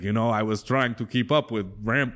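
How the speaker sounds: put-on half-hearted German-sounding accent; attempted Schwarzenegger accent. Imitating Schwarzenegger in a documentary, botched German accent. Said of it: "That's like a German accent".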